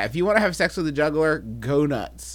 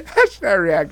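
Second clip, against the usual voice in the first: hammed-up Irish brogue; 9 semitones higher, 8 dB louder, slower than usual. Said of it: "Or should I say green?".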